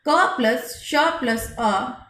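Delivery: "क प्लस श plus अ" built up slowly, each part spaced; slow spelling. Shown as a demonstration. Teacher builds the conjunct "क plus श plus अ" slowly for pupils. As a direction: break "क plus श plus अ" into parts slowly. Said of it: "जिसको हम क्षत्रिय वाला श".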